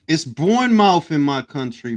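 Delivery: "Bournemouth" ending in a full "mouf"; own-accent pronunciation. Shown as a demonstration. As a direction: insist on Bournemouth as born-MOUF. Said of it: "that's the accent".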